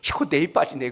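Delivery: high-pitched fluster dropping to an admission; embarrassed older woman. Retold or imitated. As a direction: imitate a flustered lady realizing her mistake. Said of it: "칠십 대 아주머니께서 이렇게 이야기하는". (당황한 칠십 대 아주머니 흉내)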